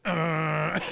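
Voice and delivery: droning buzzer noise done by mouth; mock buzzer blare; imitated loud buzzer. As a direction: imitate a harsh game-show buzzer. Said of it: "And it is so loud".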